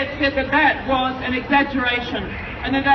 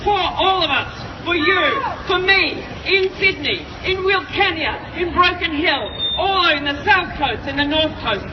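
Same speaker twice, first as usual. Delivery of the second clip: urgent activist; 3 semitones higher than usual. Real, not acted. Rally speech, building list of places.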